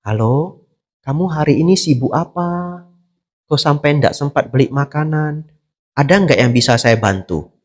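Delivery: soft, gentle concern down the phone; caring phone call. Retold or imitated. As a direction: ask kindly, no reproach. (bertanya lembut penuh perhatian lewat telepon)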